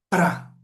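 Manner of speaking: "pra" said clearly as a single syllable. Shown as a demonstration. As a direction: clip out "pra" as a model syllable. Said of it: "Quando ela põe uma vogal". (sílaba "pra" bem articulada)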